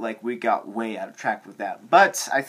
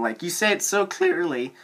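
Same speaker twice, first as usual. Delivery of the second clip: voice crack; 5 semitones higher than usual. Real, not acted. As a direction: voice cracks mid-sentence. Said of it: "Ooh, that was a voice crack".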